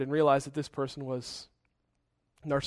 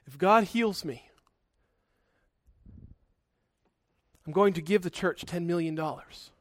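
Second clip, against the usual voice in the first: weak voice; 5 dB quieter than usual. Retold or imitated. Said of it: "in a very weak voice".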